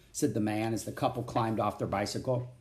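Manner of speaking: usual speaking voice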